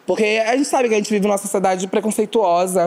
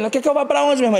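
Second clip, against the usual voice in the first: mesmo tom dele; 8 semitones higher, much faster than usual. Retold or imitated. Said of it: "o mesmo naipe que ele".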